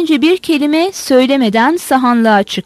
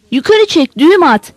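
shouting; 3 semitones higher than usual. Acted. Mitka shouts up to the Kalmyk on the beam, a mild barked order. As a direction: call the order up to the rafters. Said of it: "diye bağırdı".

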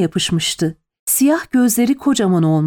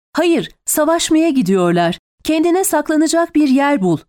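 raised-pitch urgent order; exasperated shout; 6 semitones higher than usual. A narrator's reading. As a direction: shout back at the end of patience, restrained volume. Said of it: "diye bağırdım dayanamayarak".

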